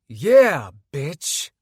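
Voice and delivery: loud whooping cheer. Acted. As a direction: shout it out in triumph. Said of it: "Nanaya cheered".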